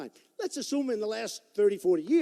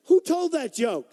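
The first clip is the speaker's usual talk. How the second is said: slow, higher, louder who told that joke; mock outraged question; 7 semitones higher, 8 dB louder, slower than usual. Asking the crowd who told the joke, drawn out in mock outrage.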